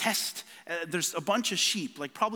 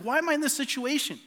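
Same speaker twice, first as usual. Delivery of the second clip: retold frustrated prayer; 5 semitones higher than usual. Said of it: "I was like".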